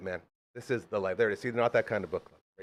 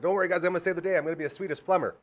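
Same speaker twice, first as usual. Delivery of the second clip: retold sitcom character; 7 semitones higher, faster than usual. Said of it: "and he's like".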